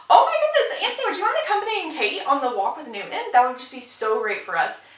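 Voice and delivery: high gushing request, settling as it goes; mock gushing. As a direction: burst out like a delighted matchmaking mother. Mary gushing matchmaking request.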